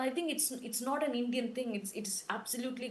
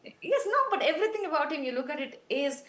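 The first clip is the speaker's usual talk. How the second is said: laughing; 5 semitones higher, 5 dB louder than usual. Real, not acted. Laughing protest at disbelief.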